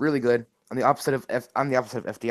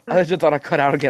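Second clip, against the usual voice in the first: fast repeat; 6 dB louder, faster than usual. Real, not acted. Repeats line after dropout.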